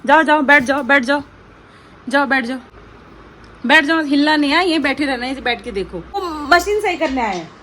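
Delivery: firm, loud sit commands; loud commands to the dog. Real, not acted. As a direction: order the dog to sit while the technician works. Ordering dog away from technician. (कुत्ते को ज़ोर से बैठने का हुक्म)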